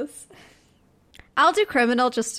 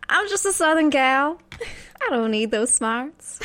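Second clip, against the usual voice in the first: put-on southern accent; 3 semitones higher than usual. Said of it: "You do a good southern accent".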